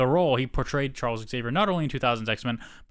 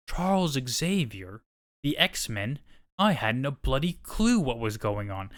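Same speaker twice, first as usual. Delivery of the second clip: a lightly put-on British accent, reading the quote; quoting Stewart in a mild British accent. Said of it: "I know Chair doesn't appreciate my British accent".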